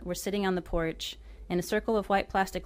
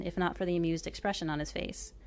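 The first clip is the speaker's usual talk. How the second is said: usual speaking voice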